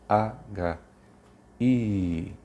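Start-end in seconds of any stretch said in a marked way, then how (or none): 1.6-2.3 "I" drawn out and enlarged; exaggerated vowel. Shown as a demonstration. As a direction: make the "I" big so it sticks. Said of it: "que tem um exagero pra que ele grave". (vogal "I" bem exagerada)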